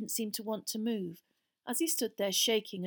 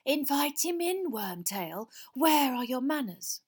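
cold master giving an order, lightly raised; 6 semitones higher, 5 dB louder than usual. A narrator's reading. Master telling Wormtail to invite the man in, cold voice. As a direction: order the servant about with cold courtesy. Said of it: "The cold voice was coming from the ancient armchair".

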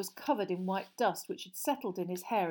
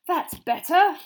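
loud, higher, relieved exhale; panting; 10 semitones higher, 12 dB louder, slower than usual. Acted. Mister Weasley fresh out of fireplace, panting. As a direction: puff it out after exertion. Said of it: "panted Mister Weasley".

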